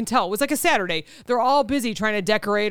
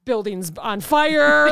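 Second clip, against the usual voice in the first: mock fire announcement; 3 dB louder, much slower than usual. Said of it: "and you were like".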